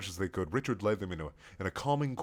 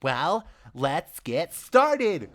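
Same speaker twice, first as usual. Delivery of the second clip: slow, high, loud call to the room; shouting; 6 semitones higher, 4 dB louder, much slower than usual. Acted. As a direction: call it out to everyone. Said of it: "Richard shouted to the room".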